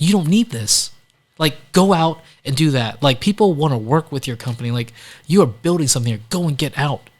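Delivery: animated urging. Retold or imitated. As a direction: fire him up to go build it. Counselor urging him to leave.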